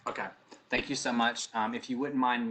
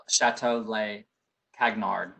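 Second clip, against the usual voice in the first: "Chateau Le Cagnard" said in an American Southern accent, not the French way; 2 semitones lower, 5 dB louder, slower than usual. Shown as a demonstration. Host jokes she can't say the hotel name, Southern accent. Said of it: "is how I would say it with my Southern accent".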